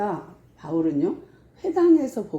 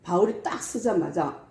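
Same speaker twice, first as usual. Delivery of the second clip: ordinary talk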